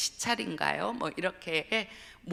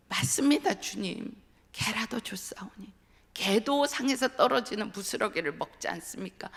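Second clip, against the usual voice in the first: humble plea; 3 semitones higher than usual. Retold or imitated. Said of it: "수로보니게 여인이 예수님 앞에 나아가서 했던".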